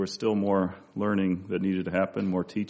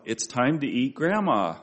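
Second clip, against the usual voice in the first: put-on five-year-old's mildly called-out announcement, higher pitch; mock yell; 4 semitones higher than usual. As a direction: run "eat, Grandma" together, pitch lifting on Grandma. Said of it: "he yells out".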